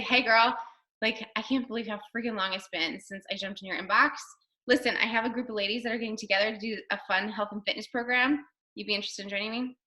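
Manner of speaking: put-on casual, quick chat to a girlfriend; natural talk. Shown as a demonstration. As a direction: toss it off quickly, no pressure. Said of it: "that's how I would talk".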